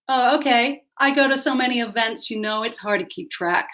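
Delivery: lazy. Acted. Hostess dismisses a guest's reminder, lazily. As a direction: brush it off lazily in an LA accent.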